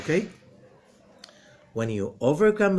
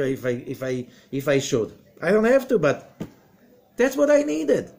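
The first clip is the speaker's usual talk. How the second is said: loud, rising sermon voice, pushing hard; booming pulpit delivery; fiery preaching; 8 semitones higher, 7 dB louder than usual. Acted. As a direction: preach it with full force to the room. Preaching at full force.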